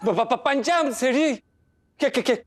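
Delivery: stuttering on the first sounds; nervous stammer. Acted. Employee caught by his boss, nervous stammer. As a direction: stammer as if caught red-handed.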